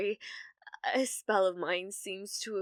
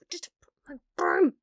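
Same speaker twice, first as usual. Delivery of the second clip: whisper; 6 semitones higher, 10 dB louder than usual. Acted. Muttered aside while fleeing.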